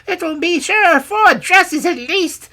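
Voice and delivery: very high, loud, excited crone; exclaiming old woman. A narrator's reading. Old woman admiring the rich robe's lining, exclaiming. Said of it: "with many exclamations of".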